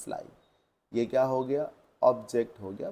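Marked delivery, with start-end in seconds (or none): 0.0-0.2 very slow, each word separate; slow dictation. Shown as a demonstration. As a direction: read the test sentence for the class. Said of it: "object क्या है sir". (बहुत धीमे वाक्य पढ़ना)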